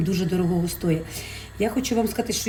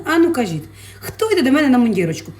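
louder, playful calling out; teasing call-out; 4 semitones higher, 5 dB louder than usual. Real, not acted. Asking viewers who comes to dinner, loud playful call.

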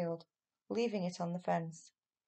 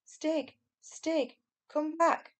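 high, loud shouting after Stig; 8 semitones higher, 5 dB louder, much slower than usual. A narrator's reading. Boy shouts after his friend chasing the men, loud and high. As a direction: call him back at full voice. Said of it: "shouted Barney".

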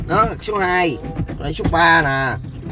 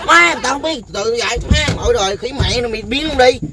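higher, louder, half-laughing rant; fed-up outburst; 8 semitones higher, 4 dB louder than usual. Real, not acted. Learner fed up with her teacher, loud half-laughing rant. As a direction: tell him off, fed up.

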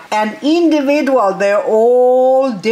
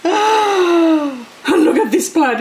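excited; 6 semitones higher, much slower than usual. Real, not acted. Delighted gasp at plant.

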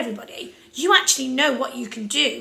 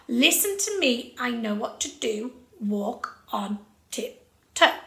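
controlled, steady beat; slower than usual. Shown as a demonstration. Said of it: "in a really controlled way".

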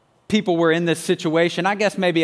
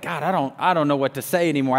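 retold prayer; 3 semitones lower, faster than usual. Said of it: "I just began to pray".

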